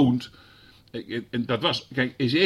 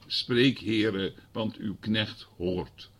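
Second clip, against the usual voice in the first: humble prayer; 2 semitones lower, 3 dB quieter, much slower than usual. Shown as a demonstration. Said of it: "Dan moet je maar gaan zeggen".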